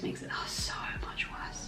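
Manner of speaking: soft breathy whisper, half to herself. Real, not acted. To the viewers, confiding about holding back tears, whispered. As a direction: lean in and whisper it like a secret.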